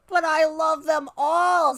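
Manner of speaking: put-on high, drawn-out childish wail; loud, dramatic protest; crying out. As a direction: cry it out like a pleading kid. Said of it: "Spencer cried".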